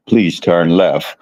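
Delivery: robot voice. Retold or imitated. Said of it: "robotic voice we got, like, in G P S".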